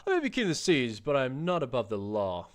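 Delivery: hearty, boastful captain voice, lightly put on; the proud king of the seas reassuring his new friends. Captain reassuring the lads he will protect them, hearty and boastful.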